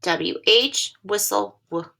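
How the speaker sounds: each letter named, then the word, then its sound. Shown as a demonstration. Teacher sounding out letters for a young class. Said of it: "letter-sound drill".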